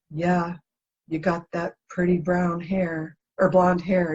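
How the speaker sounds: slow, flat monotone, lightly voiced; John's monotone voice. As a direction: drag it out flat and even. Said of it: "he's got that monotone voice".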